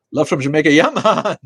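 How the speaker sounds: high, loud Jamaican shout; big Jamaican holler; Jamaican accent. Acted. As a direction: belt it out like an exuberant Jamaican greeting. Shouted Jamaican greeting, accent talked of later.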